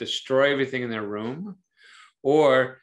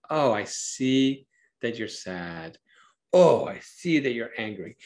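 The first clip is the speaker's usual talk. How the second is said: slow, sincere naming of the feeling; really see the child's feeling; gentle, attuned parent voice; genuine reflecting. Shown as a demonstration. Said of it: "to really reflect the emotions".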